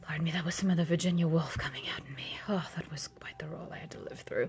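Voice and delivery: hushed apologetic whisper. Real, not acted. Apologizing to the fairy, contrite whisper.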